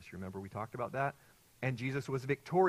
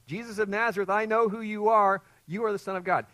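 higher, much louder shriek; demon shrieking; 9 semitones higher, 11 dB louder than usual. Retold or imitated. Preacher voicing the demon shrieking at Jesus. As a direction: shriek it out as the unclean spirit. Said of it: "and he says".

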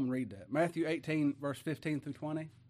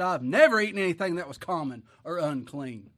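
Peter protesting; 7 dB louder than usual. Acted.

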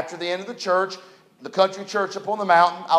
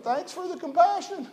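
sarcastic; 11 semitones higher, 3 dB quieter than usual. Retold or imitated. Sarcastic reply to blunt pastor.

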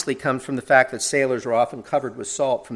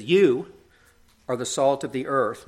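"You" set apart, raised and held before a pause; stress on You. Retold or imitated. Preacher quoting Jesus to the congregation, emphatic You. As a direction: lean on "You", then pause. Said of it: "Jesus makes emphatic use of this".

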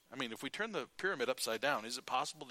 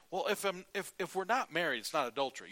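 mock objection; 7 semitones higher, 6 dB louder than usual. Preacher voices an objecting listener.

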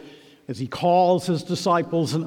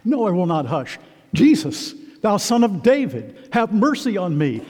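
crying out; 4 semitones higher than usual. Acted. Blind Bartimaeus calling to Jesus, crying out. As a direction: call out over those hushing you. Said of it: "He cried out".

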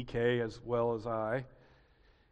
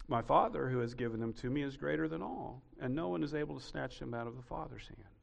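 scripture reading; 7 dB quieter, faster than usual. Shown as a demonstration. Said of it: "verse twenty-nine".

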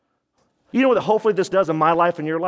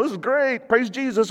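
smiling; 7 semitones higher than usual. Retold or imitated. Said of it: "I'm smiling, going".

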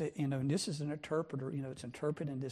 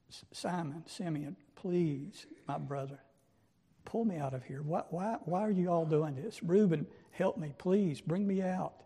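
desperate cries that climb louder toward Reuben's name; pleading from the pit; 2 semitones higher, 4 dB louder than usual. Pretend. Young Joseph in the pit begs his brothers for help, desperate pleading. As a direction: beg your brothers to pull you out, rising to a cry.

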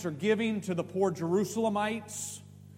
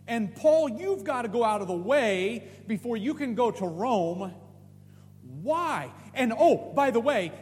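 raised-pitch, insistent challenge; acted protest with emphatic whys; challenging questioning; 4 semitones higher, 4 dB louder than usual. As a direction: press Paul for a reason, higher and louder. Imagined challenge to Paul.

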